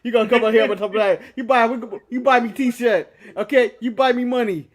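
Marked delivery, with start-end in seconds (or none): 1.3-4.7 mock Jamaican accent. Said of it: "he has the fake Jamaican accent".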